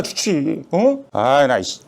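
exasperated shout. Acted. Doctor begging his friend to take the job, exploding in a yell. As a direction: explode at your old friend.

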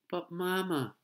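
put-on high, loud little-girl objection; protesting child. A narrator's reading. Little girl dragged toward the parking lot, protesting. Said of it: "protested Ramona".

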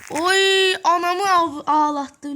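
high, loud angry outburst; furious yell. Real, not acted. Gamer yelling at Piper who beat him. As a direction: explode at the enemy.

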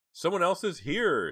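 high, loud cry of panic; slow, high-pitched alarm. A narrator's reading. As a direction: cry out a sudden warning, voice shooting up. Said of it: "Jade cried".

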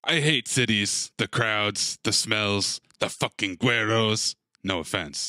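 low, murmured world-weary complaint; a hint of a tired killer grumbling; lightly voiced gruff hitman. Reading Liam's lines in character.

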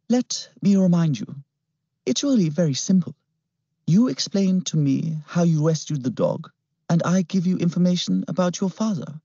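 high, silky sinister voice; smooth villain. A narrator's reading. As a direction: purr it with menace. Klimt voiced.

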